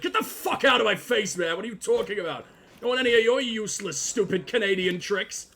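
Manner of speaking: hammed-up irritated brush-off; mock angry dismissal. Gamer mimics Igor being mean to Oliver, mock angry. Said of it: "you're so mean to Oliver".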